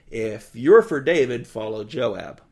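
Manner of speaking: loud, slow rallying call. Retold or imitated. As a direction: shout it to the whole army. Soldier calls out to armies.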